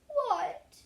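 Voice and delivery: high, loud startled cry; the king jolts up in shock; king's startled what. A narrator's reading. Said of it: "he said".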